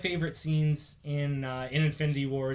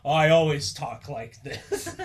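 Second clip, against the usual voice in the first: slow, lightly put-on deeper voice; mock-macho, stretched out with a laugh; Star-Lord; 4 dB louder, slower than usual. Star-Lord denies to his crew, mock deep voice. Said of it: "you're totally talking deeper voice".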